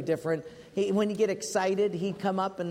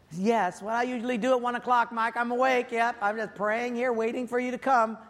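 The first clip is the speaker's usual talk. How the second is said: sarcastic reply; 5 semitones higher than usual. Retold or imitated.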